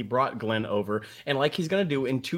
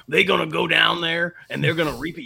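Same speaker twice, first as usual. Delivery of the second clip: put-on Mississippi accent; 5 semitones higher than usual. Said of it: "Am I doing a Mississippi accent correct?".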